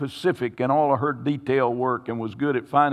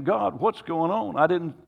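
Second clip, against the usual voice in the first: raised, anguished plea to God; desperate prayer, voice lifted high; pleading prayer; 3 semitones higher than usual. Retold or imitated. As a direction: cry out to the Lord in distress. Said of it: "I'm crying out to God".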